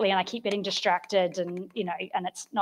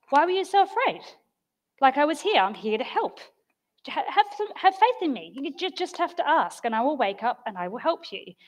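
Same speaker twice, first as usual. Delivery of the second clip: higher-pitched, reassuring reply without anger; gentle teaching; 4 semitones higher than usual. Acted. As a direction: reassure them like a patient teacher. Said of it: "said suggests teaching".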